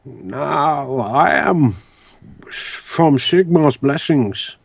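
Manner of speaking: sapling. Acted. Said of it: "He sounds like a Treebeard seedling".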